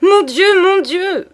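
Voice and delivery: high, loud wailing lament; moaning. A narrator's reading. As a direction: moan it out in dismay. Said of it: "madame gémit".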